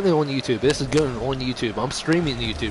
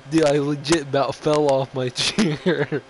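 talking through real laughter; giggling while telling it; laughing. Real, not acted. Laughing after nearly falling.

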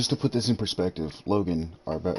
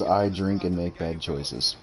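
slow shirt quote; 2 semitones lower, much slower than usual. Retold or imitated. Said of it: "Wearing a shirt that says".

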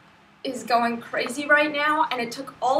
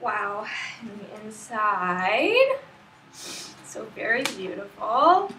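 hushed awe; 4 semitones lower, slower than usual. Real, not acted. Admiring book slowly.

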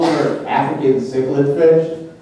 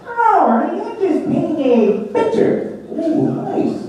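Bert voice; 6 semitones higher, slower than usual. Acted. Puppet Bert voiced in sketch.

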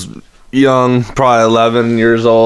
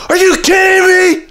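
very high, incredulous mock outburst; exasperated outburst. Woken sibling reacting to little sister, exasperated high outburst. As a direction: squeal it in retold outrage. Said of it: "I'd be like".

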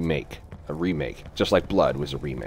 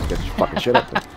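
alarm shout; 13 semitones higher than usual. Real, not acted. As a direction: bark it at a teammate. Yelling at teammate in game.

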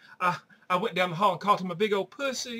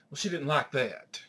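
deadpan; 6 semitones lower, 5 dB quieter than usual. Acted. Running deadpan refrain.

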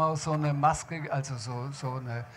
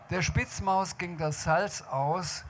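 poem recital; 4 semitones higher, slower than usual. Shown as a demonstration. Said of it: "ob ich's noch zusammenkriege".

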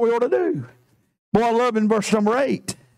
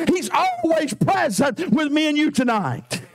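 raised, ringing proclamation; preaching shout. Shown as a demonstration. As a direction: call it out to the church. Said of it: "repeated line".

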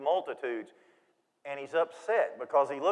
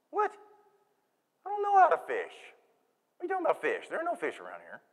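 confused woman; 5 semitones higher, faster than usual. Acted. Woman at the well, confused reply.

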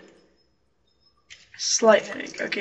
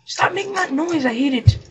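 loud annoyed snap; 6 semitones higher, 8 dB louder than usual. Real, not acted. Annoyed at game sound.

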